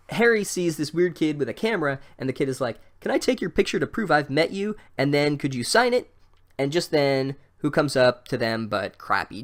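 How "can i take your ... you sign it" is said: high, eager fanboy voice, pitched well up; eager fan kid. Retold or imitated. Starstruck kid to Harry, asking for a photo, high and eager. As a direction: play a starstruck kid begging.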